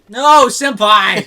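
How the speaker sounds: slow, drawn-out anime wail; anime cry. Pretend. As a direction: wail at senpai like an anime girl. Anime plea as enemy attacks.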